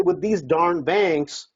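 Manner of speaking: slow, careful "With these darn banks"; "darn" eased out slowly in place of a curse; polite rephrase. Shown as a demonstration. A coach showing a seller the polite way, slowly. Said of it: "So you say".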